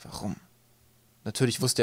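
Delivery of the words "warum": hushed, unvoiced single word; whispered. A narrator's reading. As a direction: breathe it out in a small whisper. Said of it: "flüsterte er".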